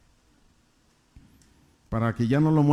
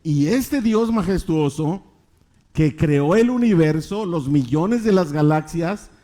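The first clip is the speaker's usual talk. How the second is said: emphatic preaching; 5 semitones higher than usual. Real, not acted. Preacher exalts God's majesty.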